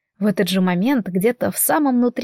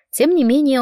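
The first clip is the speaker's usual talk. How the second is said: plain reading voice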